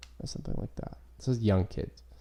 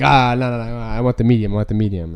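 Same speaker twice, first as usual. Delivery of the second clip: loud, hurried imitation of a stoner; flustered stoned kid; 8 dB louder than usual. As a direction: blurt the correction loudly, playing the kid. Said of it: "And then the kid snapped out".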